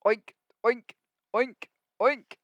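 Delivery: lightly voiced pig grunts; oinking for the listening kids; pig oinks. Shown as a demonstration. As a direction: oink along with the children. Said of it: "Can we make pig sounds?".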